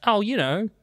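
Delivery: breathy conspiratorial whisper. Real, not acted. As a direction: hush it like a secret. Whispered joking answer.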